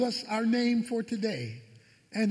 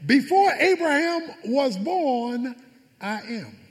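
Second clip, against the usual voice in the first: slow declaration. Shown as a demonstration. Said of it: "The name we're gonna talk about today is the name I Am".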